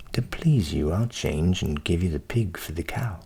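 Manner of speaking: low voiced butcher; low, obliging butcher.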